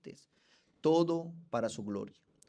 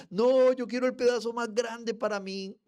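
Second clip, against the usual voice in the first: put-on high, loud child's whine; demanding child; 11 semitones higher, 9 dB louder than usual. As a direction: shout like a greedy kid.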